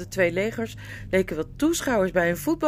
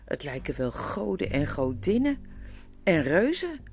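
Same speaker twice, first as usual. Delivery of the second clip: high, wondering dwarf voice climbing ever higher; a dwarf gaping at giant spirits, higher with each word; amazed dwarf; 7 semitones higher than usual. Acted. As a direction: awestruck little dwarf, voice soaring up. Dwarf marvels at awakened tree-spirits.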